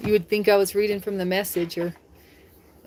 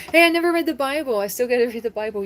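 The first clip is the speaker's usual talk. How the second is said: sudden realization; 5 semitones higher, faster than usual. Real, not acted. Sudden remembering aloud.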